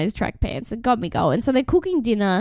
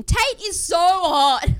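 mild mock yell; 8 semitones higher, much slower than usual. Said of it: "Mark in my ear just yelling".

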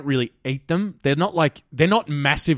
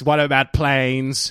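alien voice; 2 semitones higher, slower than usual. Pretend. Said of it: "I'll play the role of aliens".

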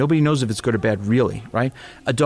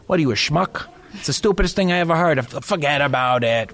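put-on Sopranos New York accent. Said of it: "Like The Sopranos".

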